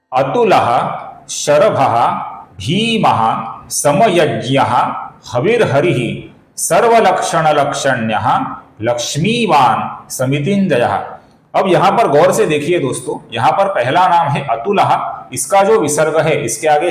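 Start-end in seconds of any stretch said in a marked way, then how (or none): 0.1-10.9 careful Sanskrit recitation, name by name; verse read out name by name. Shown as a demonstration. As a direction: enunciate each Sanskrit name, pausing between them. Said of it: "ये श्लोक इस प्रकार है".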